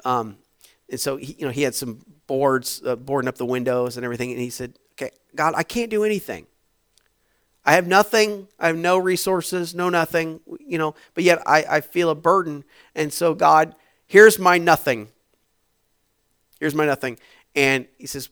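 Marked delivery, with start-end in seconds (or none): 4.9-13.8 higher, louder pleading prayer building to a cry; a retold desperate prayer; impassioned plea. Minister's prayer retold, rising plea. 14.1-15.1 louder, slow cry of offering; here's my nothing, called out. Retold or imitated. First offering, loud and slow. 16.6-17.2 higher, louder pleading prayer building to a cry; a retold desperate prayer; impassioned plea. Minister's prayer retold, rising plea.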